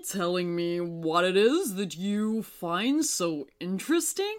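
moon voice. A narrator's reading.

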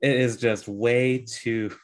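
holding back laughter, words slowed; trying not to crack up; stifled giggles. Real, not acted. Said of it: "I'm trying not to laugh".

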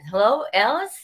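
a put-on Boston executive accent. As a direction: caller with a Boston accent introducing himself. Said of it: "he had the accent".

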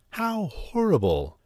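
high, honking goose cry. A narrator's reading. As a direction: honk it like a goose. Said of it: "she honked".

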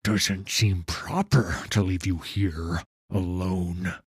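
measured words with an edge; subtle sharpness. Acted. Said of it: "voice carried a subtle sharpness".

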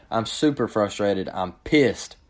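ordinary delivery

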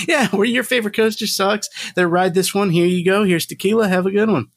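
bright, high, upbeat booth greeter; cheery greeting. Pretend. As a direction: hand it over with a big friendly hello. Pretend greeting at trade booth.

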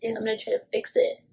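hammed-up fake sorry; mock Justin apology. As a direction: play him as a fake, panicky apologizer. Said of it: "And he's like".

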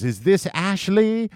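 radio host. Retold or imitated. Radio host voiced in story.

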